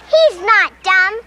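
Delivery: rising high indignant anger; angry. Acted. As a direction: snap back, getting shriller. Sisters quarrel, getting angrier.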